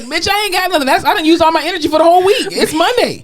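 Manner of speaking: high, fast, laughing complaint; imitating a drained patient refusing therapy; worn-out patient. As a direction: play the patient begging off, hammed-up. Voicing the exhausted patient.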